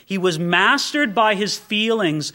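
usual speaking voice

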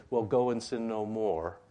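a touch of the hard-nosed judge, slowed; slow, mildly stern warning; stern reading. Retold or imitated. Old school preacher reading it as a stern rebuke. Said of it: "you can read it like this".

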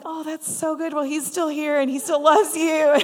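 retold upbeat comforting, rising in volume; eager reassurance. Speaker reassuring a lady who left church, eager encouragement.

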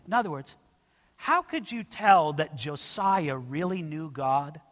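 ordinary talk, nothing marked

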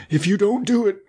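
high-pitched threatening wolf; wolf crying out. A narrator's reading. Wolf threatening the miller, high cry. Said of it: "cried the wolf".

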